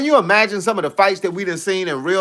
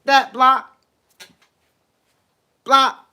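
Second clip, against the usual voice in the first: mock eager fan; 6 semitones higher, slower than usual. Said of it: "they say".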